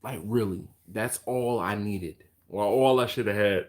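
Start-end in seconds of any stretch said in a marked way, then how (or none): 2.5-3.7 words pushed through a yawn. Real, not acted. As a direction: talk mid-yawn. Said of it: "can't shake the yawn".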